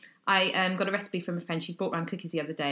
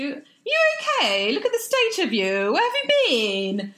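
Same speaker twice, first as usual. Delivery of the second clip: high, loud fussing mum voice; imitating the ex-boyfriend's mum, shocked and fussing; concerned mother-in-law; 9 semitones higher, 6 dB louder than usual. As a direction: fuss over a wreck like a worried mum. Mother-in-law fussing over hungover speaker.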